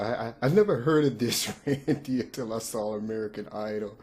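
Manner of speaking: stumbling over words while giggling; laughing. Real, not acted. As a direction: still chuckling as you talk. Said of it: "I'm sorry".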